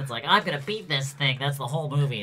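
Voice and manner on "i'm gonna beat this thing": pinched nose-plug voice; wearing nose plugs. Pretend. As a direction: talk like your nose is plugged. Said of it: "people talking like this".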